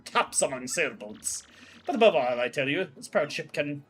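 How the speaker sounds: grand, showy voice of a vain ship owner; a hint of a boastful captain gushing over his ship; pompous ship owner. Ship owner gushing to Mario, grandly voiced.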